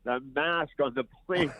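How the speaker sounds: nasal, stuffed-up nose; talking through a blocked nose. Real, not acted. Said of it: "so I'm a little nasally".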